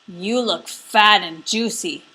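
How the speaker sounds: troll eyeing a juicy goat; greedy troll. Acted. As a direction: savour the threat like a troll.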